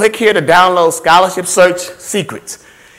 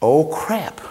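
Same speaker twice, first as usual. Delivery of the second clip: dismayed dad; 6 dB quieter than usual. Acted. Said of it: "And Daddy's like this".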